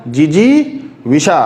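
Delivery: जी जी विशा with second जी long, वि short; correct vowel lengths. Shown as a demonstration. Teacher repeats the correction, measured syllables. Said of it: "यहाँ पे छोटी है".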